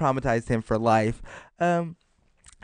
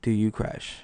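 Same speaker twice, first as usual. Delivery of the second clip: slow, hushed, weighty question; dramatic whisper; much slower than usual. Real, not acted. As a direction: whisper it slowly for mock suspense. Mock-dramatic launch of big question.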